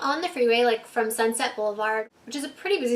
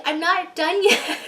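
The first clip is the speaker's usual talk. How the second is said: laughing refusal; 6 semitones higher, 4 dB louder, slower than usual. Retold or imitated. Drunk refusing while cops arrive.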